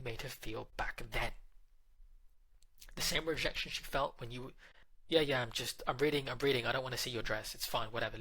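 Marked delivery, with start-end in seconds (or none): 5.1-8.2 louder, impatient yeah-yeah brush-off; dismissive brush-off. Retold or imitated. Boyfriend brushing off girlfriend's dress, impatient and dismissive. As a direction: boyfriend waving off his girlfriend while reading. Partner brushing her off, voiced.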